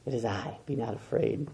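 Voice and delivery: calm a scared friend almost in a hush; hushed reassurance. Acted. Jesus speaking peace to the disciples, hushed and gentle. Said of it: "Jesus shows up and speaks peace".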